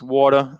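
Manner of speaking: Water said wattah, r dropped; Boston water, wattah; Boston accent. Shown as a demonstration. Host showing how he says Water. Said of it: "how I pronounce things".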